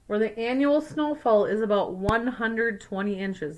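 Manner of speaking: put-on clear, even read-aloud voice for kids; story narration. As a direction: read it like a picture book to a class. Reads picture book aloud.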